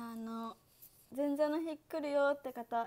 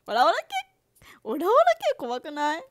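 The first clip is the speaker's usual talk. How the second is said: surprised; 3 semitones higher, 12 dB louder than usual. Real, not acted. Reacting loudly to suggestion.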